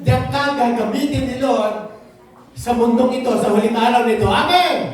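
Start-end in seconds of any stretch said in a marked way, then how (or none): 3.4-4.9 rallying shout. Real, not acted. Preacher rallies the congregation.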